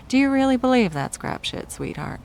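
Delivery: mock their beliefs with scorn; contemptuous scoff. Villain sneers at victim's principles.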